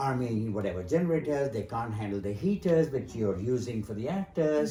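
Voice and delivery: a proper English accent put on lightly; retelling the line in a faked posh English accent; fake English accent. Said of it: "So I said it in an English accent".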